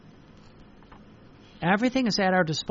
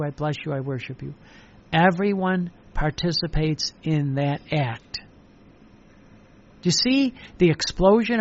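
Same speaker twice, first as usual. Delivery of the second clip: prayerful preaching. Acted. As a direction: pray it aloud to Jesus. Prayerful sermon.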